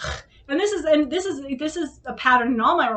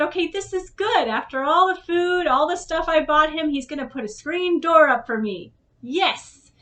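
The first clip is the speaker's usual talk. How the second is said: higher, brighter-pitched, eager; hopeful excitement; 5 semitones higher, 4 dB louder than usual. Retold or imitated. Recalling her hopes for the screen door, eager and higher. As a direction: pump yourself up, half-mock.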